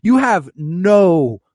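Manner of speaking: loud, re-enacted telling-off; heated, emphatic dressing-down; pissed off. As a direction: scold him with rising irritation. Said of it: "pissed me the fuck off".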